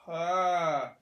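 short groan of pain. Real, not acted. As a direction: let out a hurting ah. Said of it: "This hurts like".

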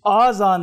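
आजान with a long aa at the start, madd on alif; आजान repeated as the mistaken long form; wrong long vowel. Shown as a demonstration. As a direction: say आजान stretching the first aa. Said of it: "मद नहीं हम डाल सकते".

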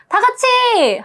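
high cheerful crowd call; rally the crowd to sing along; mock hype call. Idol demonstrating a sing-along call, hyped. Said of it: "그 부분이 나오는 때 뭐".

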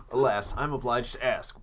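lightly voiced prim owl; a touch of a formal old curator; Blathers voice. The owl asking the player in game, lightly put-on formality. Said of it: "it's a Blathers voice".

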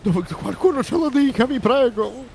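high, loud pleading cry; loud mock plea. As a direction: call out desperately for someone to help. Calls out a plea for directions.

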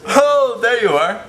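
high, loud sudden "oh"; startled, then delighted; surprised exclamation. Acted. Spotting something suddenly.

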